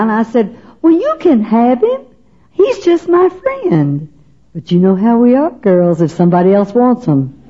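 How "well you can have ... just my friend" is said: high, slow, airy brush-off; breezy dismissal. Retold or imitated. To the teasing girlfriends at the slumber party, a high airy brush-off. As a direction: wave it off as if he means nothing.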